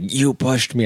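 lightly mimicked outrage; upset accusation. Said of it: "He got really upset".

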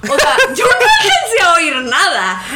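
real laughter breaking into the words; laughing at her own memory. Real, not acted. Laughing while recalling.

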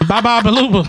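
mock babbling, laughing; speechless stammer. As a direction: stammer out nonsense syllables. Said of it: "If you can get your words out".

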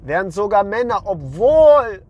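real shout, straining the voice; ranting to viewers, shouting. Real, not acted. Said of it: "ich sollte eigentlich nicht schreien".

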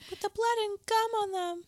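high, laughing through the words. Real, not acted. Cohost adds gross detail to teeth, laughing.

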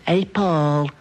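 put-on Liverpool dance-hall girls' accent. Shown as a demonstration. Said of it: "which is the girls who go to the dance hall".

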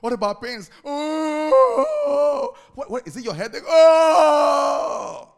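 a doctor shouting in frustration; exasperated shout. Acted. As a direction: blow up at the crying patient. Acted doctor losing patience.

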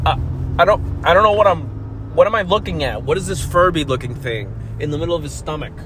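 lightly voiced confused x-ray tech, fast then trailing; a hint of a puzzled technician squinting at a scan; baffled x-ray tech. X-ray tech puzzling over a scan, mildly mock baffled. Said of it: "the people from the x-rays to go like".

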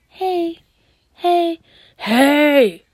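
man voice. Retold or imitated. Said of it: "used your man voice on somebody".

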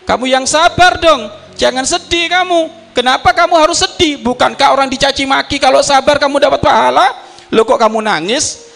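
high, pleading wife's voice. Retold or imitated. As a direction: voice the worried wife, pitched high. Wife questions crying husband.

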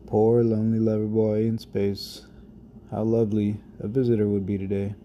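spoken-word poem, unhurried; poem recitation. Acted. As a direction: let each image land with pauses. Reads his poem aloud.

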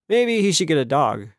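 plain reading voice

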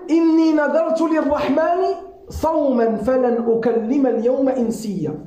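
rapid chanted Quranic recitation. Acted. Preacher recites the verse to the congregation, fast and chanted. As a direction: recite the verse in one quick flowing breath.

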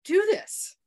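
high and loud indignant tirade; furious rant. Retold or imitated. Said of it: "I mean, I was furious".

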